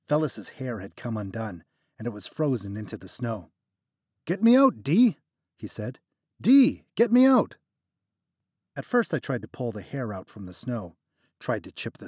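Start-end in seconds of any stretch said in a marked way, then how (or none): 4.3-7.6 much higher, louder desperate plea; desperate begging. Acted. Trapped friend begging narrator to free him. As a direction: beg to be freed, panicking.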